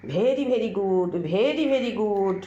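slow, stretched praise for the dog; squeaky praising a dog. Real, not acted. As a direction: drag out each very to butter the dog up. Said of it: "অনেক তেল মেরে মেরে খাওয়ানো হচ্ছে".

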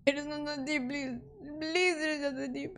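thin little plea to be let off; small pleading voice. Real, not acted. Same words repeated as a plea.

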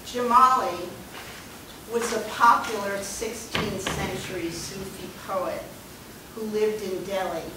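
measured reading voice carried to the back; projecting without microphone. Real, not acted. Poet addressing an audience without a microphone, projecting. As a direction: project to the room, unamplified. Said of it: "gonna try without the microphone".

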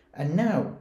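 rally the crowd; excited cry. A narrator's reading. Max starting the wild rumpus, excited cry. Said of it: "cried Max".

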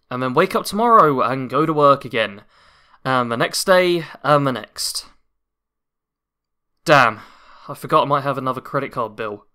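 lightly voiced weary office worker; low, tired, half-hearted game read; bad acting. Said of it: "my terrible voice acting".

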